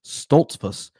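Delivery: "Stoltzfus" said clearly as STOLTS-fuss; deliberate "Stoltzfus", L-T-S sounded out; careful pronunciation retry. Real, not acted. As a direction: land "Stoltzfus" with every middle consonant. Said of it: "This Hispanic accent is getting to me".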